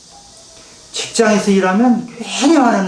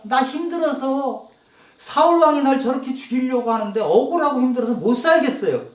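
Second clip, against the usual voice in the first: higher voice, pleading and weary; lament to God; 5 semitones higher than usual. Retold or imitated. Preacher reading David's psalm as a plea to God. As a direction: cry out your grievance to the Lord. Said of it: "하나님께 하소연하는 장면이 나오는데".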